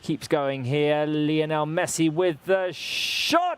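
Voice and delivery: drawn-out commentary, bursting on the shot; live shot call. Real, not acted. Commentator follows Messi's free kick live, drawn-out shot call. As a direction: stretch the build-up, then cry out "oh".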